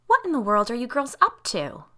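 high, incredulous parental question; scolding mother. A narrator's reading. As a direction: catch the children at mischief. Mother catches girls misbehaving.

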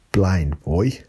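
put-on clumsy Irish accent, lilting up at the end; bad Irish accent. Podcaster naming a favourite podcaster, in a poor Irish accent. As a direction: attempt an Irish accent and miss. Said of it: "That's not a good Irish accent".

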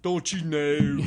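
slow, stretched Midwestern vowels; Midwest accent. Shown as a demonstration. Answering how Midwest talks, exaggerated Midwestern accent. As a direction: drag it out like a Midwesterner. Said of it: "How does Midwest talk?".

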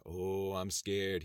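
slow mock fear; slowly mock being afraid; sarcastic mock trembling. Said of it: "he mocked".

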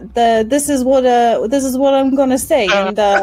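lightly voiced rat folk investigator; 살짝 높인 쥐인간 탐정 목소리; Vicket Longtail. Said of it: "I just went into".

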